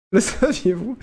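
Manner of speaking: giggling through the words; fighting back laughter; trying not to laugh. Real, not acted. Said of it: "J'essaie de garder mon sérieux".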